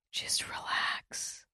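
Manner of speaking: slow soothing whisper; a hushed whisper to calm yourself. Shown as a demonstration. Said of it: "Talk super cool and calm".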